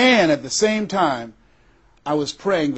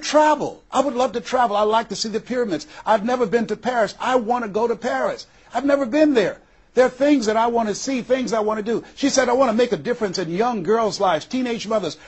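a hint of a yearning friend, higher pitched; eager friend; 5 semitones higher than usual. Friend Rosia listing dreams of Paris, higher and eager. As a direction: voice the friend longing to travel, pitched up.

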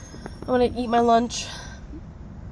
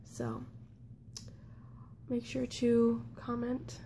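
whispering; 16 dB quieter than usual. Real, not acted. Quiet tired whisper at home.

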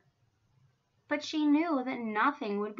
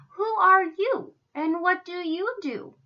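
higher, louder, unfriendly questioning; 7 semitones higher, 6 dB louder than usual. A narrator's reading. Elephants question the strange cow, not very nicely. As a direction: demand it curtly as a snooty zoo animal. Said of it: "but not very nicely".

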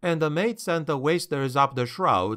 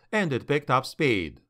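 plain reading voice

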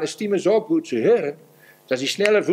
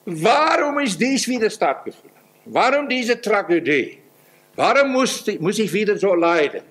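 put-on whiny baby Christian; 5 semitones higher than usual. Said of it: "Die jungen Babychristen sind so".

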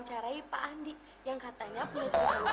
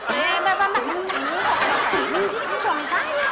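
loud complaining; 2 semitones higher, 10 dB louder than usual. Acted. Wife complains to host.

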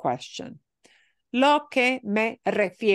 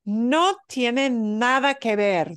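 slow model phrase; 3 semitones higher than usual. Shown as a demonstration. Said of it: "this one she repeated a bunch".

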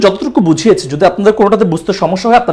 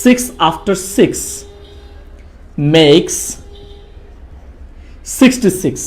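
very slow, word by word, each six with a clear s; slow tongue twister; 2 semitones lower, 4 dB quieter, much slower than usual. Shown as a demonstration. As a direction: spell out the tongue twister slowly. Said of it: "সেই tongue টুইস্টারটা এমন হবে". (ধীরে ধীরে tongue twister)

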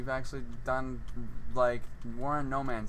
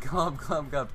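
gurgling fish man croak; slower than usual. Retold or imitated. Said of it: "why are you glubbing".

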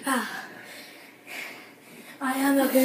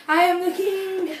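triumphant boast; 6 semitones higher than usual. Pretend. Boasting again.

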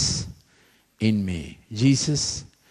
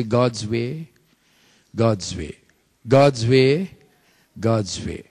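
God's way led slowly, stress on God's; leading the congregation, rising and falling on God's way; call and response; 5 semitones lower, slower than usual. Shown as a demonstration. Preacher leading congregation in repeating, call and response. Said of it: "Will you say".

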